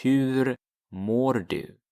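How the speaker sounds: teacher models the full question for learners; Swedish question. Shown as a demonstration. Teacher says hur mår du slowly for the class. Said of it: "That becomes".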